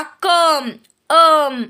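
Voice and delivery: "कम" then its tail "अम", with an uh vowel; short "अ" sound. Shown as a demonstration. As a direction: sound out "कम" and isolate "अम". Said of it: "त्याचा उच्चार अ असा होतो". ("कम", "अम" मधला अ स्पष्ट उच्चारून)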